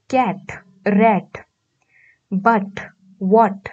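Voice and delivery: कैट and रैट said slowly and apart, ending sounds clear; teacher slowly showing rhyming words; slow rhyme demo. Shown as a demonstration. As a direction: spell out the rhyme, word by word. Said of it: "in words की ending sound similar है".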